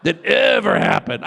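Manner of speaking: slow repeat with ever stressed. Pretend. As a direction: lean hard on ever, slowly. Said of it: "be like".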